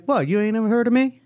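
high, mocking genie voice; smooth genie line. Mocking the trailer's genie line to a cohost, high. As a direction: ham up the genie's swagger. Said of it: "You went with".

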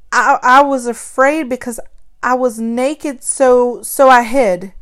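afraid. A narrator's reading. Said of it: "I could see the fear in them".

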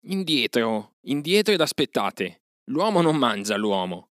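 a loud, high shout to hold the wolves back. A narrator's reading. Mowgli yells at the wolves to get back, loud and high. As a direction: bark the order from high up, loud. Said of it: "gridò Mowgli".

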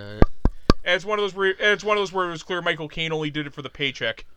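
words over mic taps; talking while tapping the microphone. Real, not acted. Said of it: "why are you tapping on the microphone".

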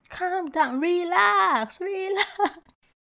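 playful, drawn-out high appeal to settle down; exaggerated, high-voiced soothing; high-pitched pleading. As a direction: sing it up high, half laughing. Mock pleading with reactive people.

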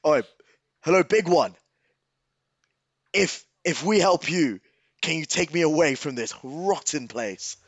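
half-shouted hail across a brawl; mild in-character shout. Acted. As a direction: call out to the big Goliath. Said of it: "I shout to the big Goliath".

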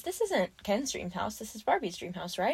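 soft, measured, polite quote; polite Barbie. Retold or imitated. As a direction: imitate Barbie nicely setting someone straight. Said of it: "she says it so politely".

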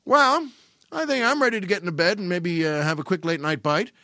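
hammed-up nonchalance; mock casual announcement. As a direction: play it like nothing is wrong. Nonchalant line in underwear.

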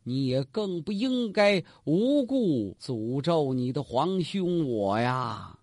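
slow, shaky words, holding back tears; a hint of the emperor trembling as he scolds; trembling reproach. Emperor reproaching his condemned brother, trembling and tearful. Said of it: "哆了哆嗦他就说".

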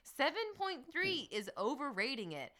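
high, emphatic word-by-word recital; nephew's review. Acted. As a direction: declaim it like an outraged little critic. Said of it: "the kind of review my nephew might have written".

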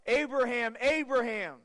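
a retold angel's urgent call. Preacher retelling the angel stopping Abraham, urgent call. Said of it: "the angel yells out".

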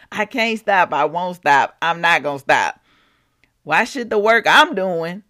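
sassy, playful paraphrase of the verse; casual mock-defiant retelling; fun translation. Shown as a demonstration. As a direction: retell it with loose, cheeky attitude. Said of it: "That's the fun translation".

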